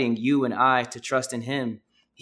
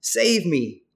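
loud, higher cry of "Lord", easing on "save me"; sermon reader crying out, louder and higher; cry for help; 4 semitones higher, 4 dB louder, much slower than usual. Acted. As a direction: call out like a sinking man. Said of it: "he cried out".

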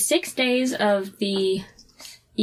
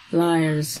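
slow, one word at a time; clipped solemn elder, word by word; staccato; 5 semitones lower than usual. Retold or imitated. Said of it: "one word at a time".

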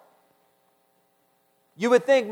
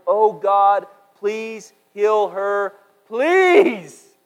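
pleading cry; 6 dB louder, much slower than usual. Acted. Moses cries out to God to heal Miriam, pleading. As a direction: beg God to heal her, breaking upward at the end. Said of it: "He cries out to the Lord".

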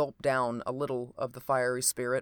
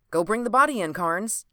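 raised, louder brisk instruction; exclaimed; 6 semitones higher, 4 dB louder than usual. A narrator's reading. Doctor sending his partner for the body, exclaiming. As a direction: exclaim it, starting high and loud. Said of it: "exclaimed the doctor".

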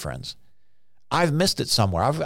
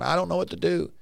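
higher-pitched helpless whine; mock freaking out; 6 semitones higher, 3 dB quieter, faster than usual. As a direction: lightly imitate someone at a loss. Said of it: "freaking out, going".

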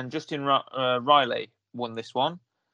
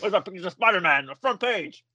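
lightly voiced demanding newspaper boss; a hint of a gruff editor; J K Simmons impression; 3 semitones higher than usual. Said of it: "your J K Simmons impressions".

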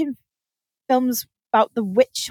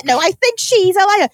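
higher, louder imitated bickering; mild mock shouting retort; mock angry retort; 9 semitones higher, 5 dB louder than usual. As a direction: fire back in the row. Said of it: "different accents shouting angrily".

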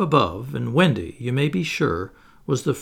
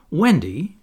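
higher, louder reproachful call; scolding; 4 semitones higher, 6 dB louder than usual. A narrator's reading. Michael objecting to Wendy about the cradle, scolding. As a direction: call her name in complaint. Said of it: "scolded Michael".

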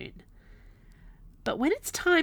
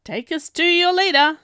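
alien cliche voice; 8 semitones higher, 9 dB louder than usual. A narrator's reading. Griff mocks robot.

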